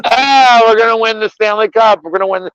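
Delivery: mock Pittsburgh fan. Mocking Pittsburgh fans to his co-host, high squealing gloat. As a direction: shriek it like a bragging rival fan, half laughing. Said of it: "Pittsburgh fans are like".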